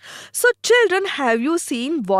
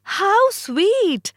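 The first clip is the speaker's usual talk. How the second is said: mother's praise; 8 semitones higher than usual. Acted. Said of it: "his mother gives response by saying".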